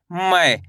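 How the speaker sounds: "मै" drawn out with the ai vowel; ai-matra demonstration. Shown as a demonstration. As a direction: model "मै" as one syllable, pitch sliding down. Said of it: "माँ को किसे पढ़ेंगे?". ("मै" का खींचकर स्पष्ट उच्चारण)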